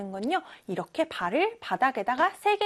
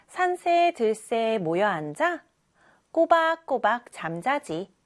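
slow poem reading; slower than usual. Acted. Reads the poem to children.

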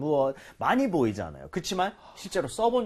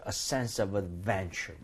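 slow, softer phrase, "adventure" stressed on "ven"; 7 semitones lower, 7 dB quieter, much slower than usual. Shown as a demonstration. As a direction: model "adventure" slowly with the accent on its second syllable. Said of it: "요런 느낌". (adventure의 ven에 강세를 두고 천천히)

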